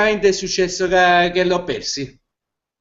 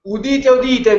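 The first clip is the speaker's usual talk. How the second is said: town crier; 4 semitones higher than usual. Pretend. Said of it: "non so se avete udito la voce di Pietro Pulla".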